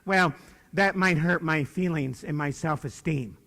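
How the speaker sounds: slow mock-whiny voice; mock the easily offended; mocking whiner. Speaker mocks people fretting over self-esteem, slow and whiny. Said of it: "Jeez, it's almost perfection".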